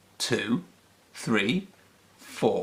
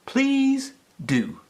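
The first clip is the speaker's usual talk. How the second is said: tag; 11 semitones higher than usual. A narrator's reading. Puppies welcome Peppy.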